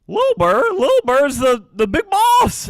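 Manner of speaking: high, loud squawky emu chatter. Acted. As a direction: gossip like an excited emu. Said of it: "and you hear".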